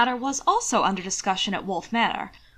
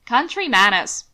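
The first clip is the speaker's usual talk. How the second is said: sneer; 7 dB louder than usual. Acted. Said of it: "sneered Mason".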